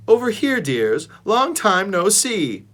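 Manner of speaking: put-on a fond old lady greeting; sweet old dog. A narrator's reading. Snickers greeting old friends, high and cooing.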